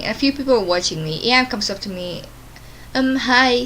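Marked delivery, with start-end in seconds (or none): 2.9-3.6 snarky. Retold or imitated. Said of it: "she says snarkily".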